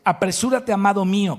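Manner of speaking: an impassioned call across the mountains; fervent plea. Acted. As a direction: plead for him to hurry. Voicing the bride calling the beloved.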